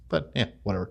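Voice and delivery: breathy whispered shrug; whispered aside. Real, not acted. To viewers after his fart joke, whispered resigned aside. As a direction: drop to a whisper, giving up.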